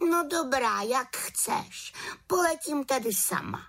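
put-on high, eager girlish witch voice; a lively young witch urging a trip; little witch voice. The little witch invites the raven, high and eager. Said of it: "prohlásila".

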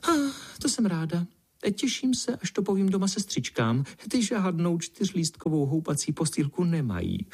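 thrilled to brag to sisters; delighted exclaim. Acted. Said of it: "pinkalinka zvolala".

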